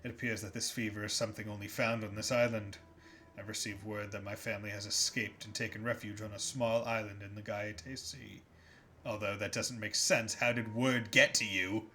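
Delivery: low, weary captain's journal voice; somber log reading. Acted. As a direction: read it like a dying sailor's diary. Reads Reed's log aloud.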